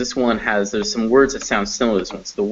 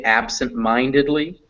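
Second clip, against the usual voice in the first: "absent-mindedly" with lighter stress on AB, main stress on MIND; ABsent-MINDedly, the MIND of "absent-mindedly" strongest; major and minor stress. Shown as a demonstration. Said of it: "ab also is stressed, but it's not as stressed as mine".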